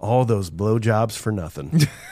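hushed, muttered under the breath. Retelling a movie line said under a character's breath: imitating Susie muttering under breath. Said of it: "Under Susie's breath".

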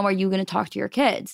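plain

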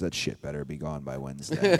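very low muttered aside, under the breath. Retelling what the manager said from the crowd, imitating someone under his breath. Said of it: "He under his breath".

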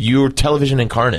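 ordinary talk, nothing marked

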